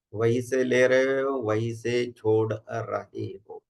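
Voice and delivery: measured instructions with long pauses between phrases; guided meditation. Acted. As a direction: guide a group into relaxation, unhurried.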